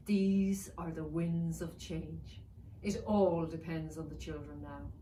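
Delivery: slow, grave pronouncement; weighty warrior dragon. Acted. Black warrior dragon warning his wife, slow and grave. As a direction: speak slowly under a great weight. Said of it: "He carried his thoughts like a great weight".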